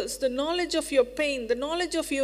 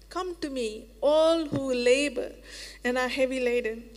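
loving call. Acted. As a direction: lean in and welcome the weary. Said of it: "lovingly to his kids".

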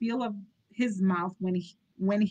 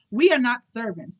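louder, firm retort; firm protest; 3 semitones higher, 6 dB louder than usual. Acted. Nurse to the snooty butler, firm protest. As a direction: stand her ground.

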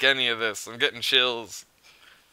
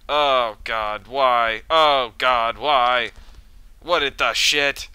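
frightened outcry; 7 dB louder, slower than usual. Real, not acted. Creepy blood altar scene.

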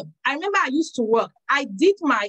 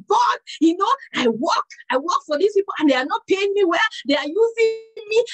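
higher-pitched, aggrieved complaint; retold angry prayer; 5 semitones higher than usual. Worker praying about being underpaid, angry complaint. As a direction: plead your grievance to God, mildly angry. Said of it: "I was just angry".

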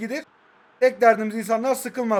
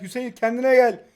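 louder, higher repeated order; forceful reprimand; 4 semitones higher, 5 dB louder than usual. Real, not acted. Player tells Hüseyin to get a grip, forcefully. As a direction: raise the voice to demand composure.

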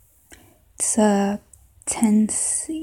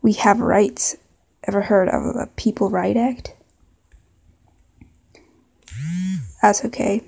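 put-on southern accent. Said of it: "maybe a southern accent".

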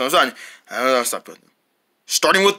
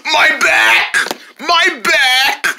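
pained cry; 5 semitones higher, much slower than usual. Pretend. Pretend injured after fall.

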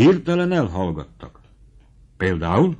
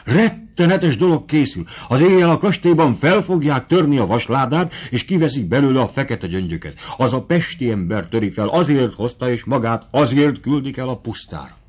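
urgent alarm; 3 semitones higher than usual. Acted. Kapitányné reveals the plot.

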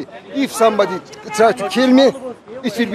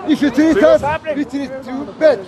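raised voice; 5 semitones higher than usual. Real, not acted. Heated street argument.

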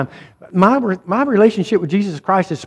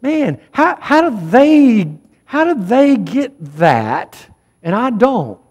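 envious complaining; 4 semitones higher than usual. Retold or imitated. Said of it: "we look around and we go".

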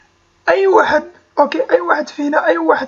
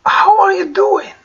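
slow, higher teaching model; slow model phrase; 4 semitones higher, 3 dB louder, much slower than usual. Shown as a demonstration. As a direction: lift and stretch it for learners. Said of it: "teaching demo". (ببطء وبنبرة أعلى)

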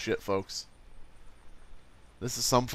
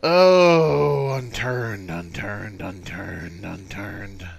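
mock despairing wail; 3 semitones lower, 6 dB louder, much slower than usual. Dying lament over the game.

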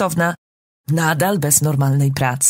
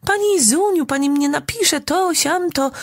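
high mocking imitation of begging neighbours; 9 semitones higher than usual. Mother mocks the neighbours who beg favours, high and squeaky. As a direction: ham up their pleading in a squeaky voice.

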